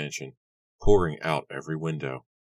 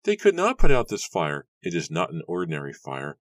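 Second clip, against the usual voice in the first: loud insisting; 4 semitones higher, 6 dB louder than usual. Acted. Villager insisting fire unnatural.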